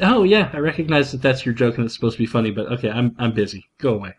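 humoring dismissal. Acted. Son brushing off dad's joke, mildly dismissive. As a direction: lightly imitate someone too busy for your joke. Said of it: "you give them that smile and a little".

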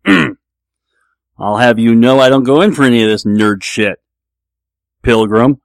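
loud, slow movie-cowboy impression; John Wayne. Actor sitting down to a tabletop game, John Wayne impression. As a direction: stretch the words out big and slow, in a rough impression. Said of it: "Here's John Wayne sitting down at the table".

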